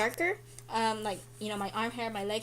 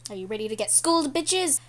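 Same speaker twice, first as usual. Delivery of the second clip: fast, louder taunt rising on "bitches"; playful hype; 3 dB louder than usual. Real, not acted. Teasing viewers before explaining the chart, fast playful taunt. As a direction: hype the viewers like a game show host. Hyping up the lesson.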